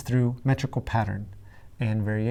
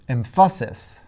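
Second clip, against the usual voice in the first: Emphasis with a punched middle, em-PHA-sis; deliberately misplace the accent onto "pha" in Emphasis; stress on middle syllable; 4 dB louder than usual. Shown as a demonstration. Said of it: "Still not right".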